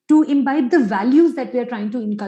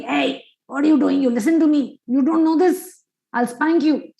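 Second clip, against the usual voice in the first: mildly raised, threatening parent voice; mock angry scolding; 3 semitones higher than usual. Father threatening his child over sofa jumping, mock angry scolding. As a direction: scold sharply with a touch of anger. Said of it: "shouting at the child".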